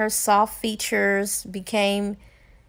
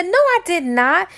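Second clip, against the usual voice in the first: shocked denial; 7 semitones higher, 5 dB louder than usual. Acted. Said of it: "so much shock and denial".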